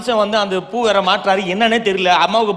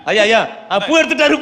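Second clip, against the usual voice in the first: relieved excitement; 3 semitones higher than usual. Acted. Relieved the landlord took flower.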